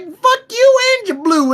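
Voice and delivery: high-pitched put-on jeer; high mock insult. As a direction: spit it out in a silly high voice. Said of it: "they're like".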